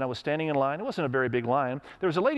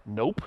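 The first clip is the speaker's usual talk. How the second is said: buzzer nope; 6 semitones lower than usual. Retold or imitated. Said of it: "it made that sound like".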